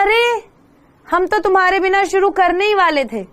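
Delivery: high, kind, coaxing teacher voice; teacher kindly welcoming a late boy, high and kind. Retold or imitated. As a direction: hurry the child along gently and kindly. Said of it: "प्यार से".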